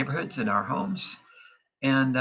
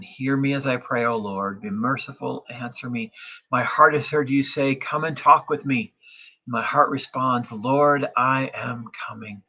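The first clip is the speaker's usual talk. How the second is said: louder, confident psalm proclamation; psalm reading; 3 dB louder than usual. Acted. Pastor reads psalm to congregation, confident proclamation. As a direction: proclaim the verses with conviction.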